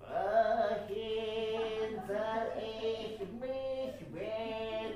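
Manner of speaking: loud, pushed-out throat sound; forced pushed voice. Shown as a demonstration. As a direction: shove the phrase out carelessly. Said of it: "ってやることもできるんです". (力任せに押し出した声)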